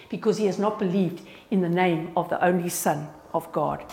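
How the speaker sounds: soft, falling phrase ends, reading verse aloud; scripture reading. Acted. Reads a Bible passage aloud.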